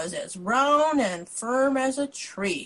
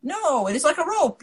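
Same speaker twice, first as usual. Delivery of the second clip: higher, louder yell; 7 semitones higher, 4 dB louder than usual. A narrator's reading. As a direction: yell it back at them. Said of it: "yelled the sixth blind man".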